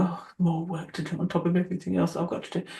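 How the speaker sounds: quick, put-upon grumble; mock weary moan; sighing complaint. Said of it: "sigh and go".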